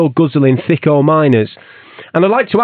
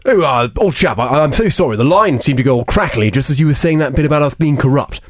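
bluffing Boris. Acted. Boris dodging question.

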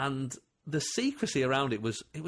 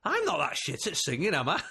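laughing; 5 semitones higher than usual. Retold or imitated. Quotes Alfie's thought, laughing.

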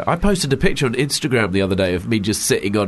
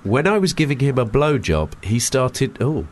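blocked nose from a cold; stuffy nose; 3 semitones higher, slower than usual. Real, not acted. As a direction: read it bunged up with a cold. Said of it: "colded up voice? / Sexy, bunged up voice".

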